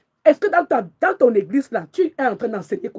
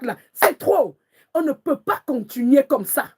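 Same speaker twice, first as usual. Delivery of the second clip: imprecatory prayer. Real, not acted. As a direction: summon God to strike them. Prays for God's vengeance. (prière de vengeance, voix forte)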